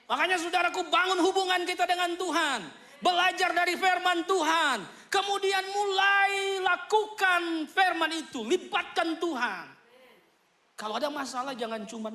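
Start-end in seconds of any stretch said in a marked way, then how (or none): 0.1-9.7 fiery preaching. Acted. Preacher exhorts the congregation to build ties with God, fiery. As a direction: preach it out with full force.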